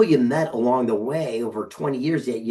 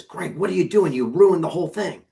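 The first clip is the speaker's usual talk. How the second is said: mentor scolding; 7 semitones higher, 3 dB louder than usual. Retold or imitated. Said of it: "and he says".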